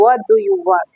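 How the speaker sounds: read shout. A narrator's reading. Tom yelling at the robbers, a high mock shout. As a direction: call out high like a tiny boy yelling. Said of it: "he shouted with all his might".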